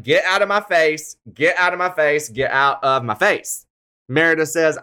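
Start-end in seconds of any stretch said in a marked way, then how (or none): 0.0-3.7 lightly raised, repeated get out; fading from sharp to tired; mildly mock angry. Imitating Meredith pushing Jen away. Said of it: "Meredith is like".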